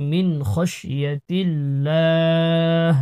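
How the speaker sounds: খসিয়াতিল্লাহ with a long a closing on a breath h; pausal ending. Shown as a demonstration. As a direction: drop the last vowel of খসিয়াতিল্লাহ and end on h. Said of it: "এখানে ওয়াকফ করলে".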